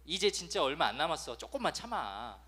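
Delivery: 나지막이 다독이는 부모 흉내; 힘든 자식을 살살 달래듯; 어르고 달래듯. Retold or imitated. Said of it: "어르고 달래는 거죠". (수험생 자녀를 나지막이 어르고 달래는 부모)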